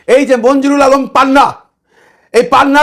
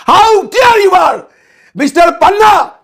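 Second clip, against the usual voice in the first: raised, drawn-out angry shout; angry scolding; 5 semitones higher, much slower than usual. Real, not acted. Host angrily shouting down journalist Panna on camera. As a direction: bellow the challenge, slow and outraged.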